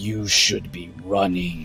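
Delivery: echoing, throaty, low monster rumble from deep throat. Game master voicing Chuth as he looks toward the party: Chuth's low rumbling voice. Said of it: "this rumbling voice echoes out of his throat".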